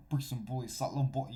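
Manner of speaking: slight attempt at a New York accent. Shown as a demonstration. Showing places have different accents, light New York accent. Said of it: "like, New York has".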